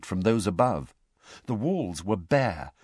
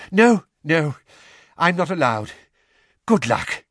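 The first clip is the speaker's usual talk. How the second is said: louder, winded reassurance; breathless farewell; 7 semitones higher, 6 dB louder than usual. A narrator's reading. Mr Weasley seeing Harry off, louder and winded. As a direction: wish him luck between breaths.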